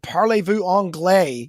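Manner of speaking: put-on slow French with a heavy American accent. A tourist asking a local in a heavy American accent. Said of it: "like, real American way".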